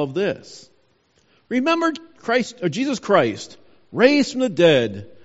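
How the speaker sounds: measured, phrase-by-phrase Bible reading; scripture reading. Acted. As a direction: read scripture out deliberately, pausing between clauses. Reads the scripture passage aloud.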